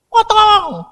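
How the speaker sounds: high, loud barked order; loud command. Retold or imitated. Doctor shouts at the villagers, loud high command. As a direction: shout the order over the crowd. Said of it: "aku ini kan suaranya keras".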